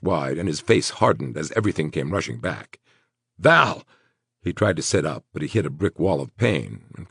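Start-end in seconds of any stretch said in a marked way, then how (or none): 3.4-3.8 loud, alarmed cry. A narrator's reading. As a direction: call her name in panic. Wounded man cries out.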